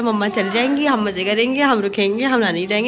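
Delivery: plain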